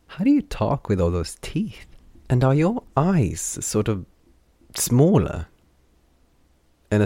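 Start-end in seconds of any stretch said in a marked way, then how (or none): 0.1-5.5 high, loud playful teasing; excited teasing. Acted. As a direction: gleefully poke fun at her. Derry teasing Lon excitedly.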